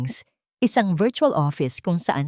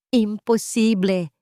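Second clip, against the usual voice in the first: muttered disbelief; 4 semitones higher, slower than usual. Acted. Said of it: "sabi niya sa sarili".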